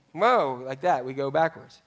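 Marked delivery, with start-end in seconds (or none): 0.1-0.6 startled whoa. Retold or imitated. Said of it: "We're like".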